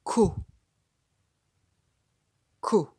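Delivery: ko and Ko punched loud, as a model syllable. Shown as a demonstration. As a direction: hit ko hard for the child. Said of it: "c'est la syllabe".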